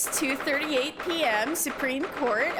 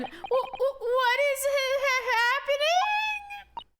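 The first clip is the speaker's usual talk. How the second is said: much higher, stuttering disbelief; stammering shock; 11 semitones higher, slower than usual. Acted. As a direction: trip over every word in alarm. Stunned at unmasking.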